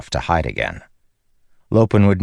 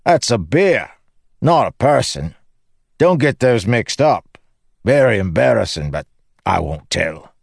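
jokey mock-confidential advice, pitched up; cheeky Lopen; 6 semitones higher than usual. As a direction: play a cocky joker, lilting high. Lopen's dialogue in narrated story.

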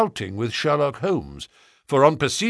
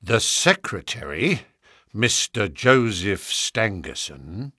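slow, low solemn answer; weighty, sombre reply; grave; 3 semitones lower, slower than usual. Acted. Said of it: "said Lestrade gravely".

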